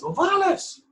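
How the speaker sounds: high, loud imitated sergeant call; hammed-up sergeant summons; mock drill sergeant shout. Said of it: "the drill sergeant comes into the bay and he says".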